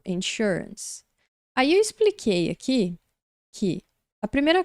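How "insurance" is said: insurance said slowly, stress on the second syllable; model pronunciation. Shown as a demonstration. Teacher reads insurance from the phonetic symbols, slowly. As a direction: drag out insurance, sh sound in the middle. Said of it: "aqui tem o símbolo fonético".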